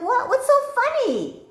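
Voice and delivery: very high, loud retold wail; tearful indignation. Woman to her laughing husband, shrieking in hurt disbelief. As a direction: squeal the question, mock-tearful and offended. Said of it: "like, I've got tears".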